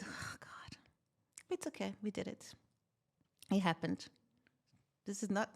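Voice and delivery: hushed, soft self-comfort; whispering to herself as the car is towed. Retold or imitated. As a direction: murmur it under your breath, resigned. Consoling herself while car towed.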